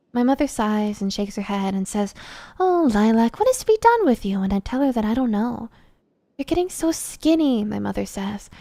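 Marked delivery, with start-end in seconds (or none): 2.6-4.4 much higher, louder despairing mother; exasperated mother. A narrator's reading. Mother despairs over her daughter's eating, high and loud. 6.4-7.6 much higher fretting mother voice; worried mother. A narrator's reading. Mother frets about her thin daughter, in a much higher voice.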